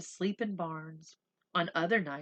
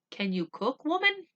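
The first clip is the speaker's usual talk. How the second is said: booming doctor; 7 semitones higher, 4 dB louder than usual. Acted. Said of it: "he boomed".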